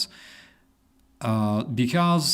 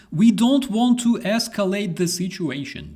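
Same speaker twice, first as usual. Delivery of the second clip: high, loud mocking cop voice; sarcastic high police excuse; mock policeman; 10 semitones higher, 5 dB louder than usual. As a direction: sneer out the cops' excuse. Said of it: "they say".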